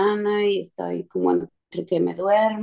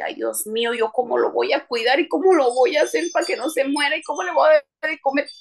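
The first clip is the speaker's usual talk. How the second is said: rising, higher anxious fretting; worried; 4 semitones higher than usual. Retold or imitated. Retold worry over tiny bird.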